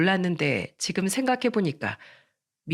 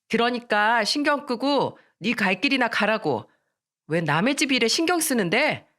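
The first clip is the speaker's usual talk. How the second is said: annoyed, higher-pitched retort; irritated rebuff; 4 semitones higher than usual. Acted. Teen telling a friend to mind their own business, irritated. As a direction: tell them off with mild anger.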